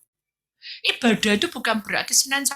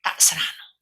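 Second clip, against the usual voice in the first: quiet prayer; slower than usual. Retold or imitated. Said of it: "Akhirnya dia bilang".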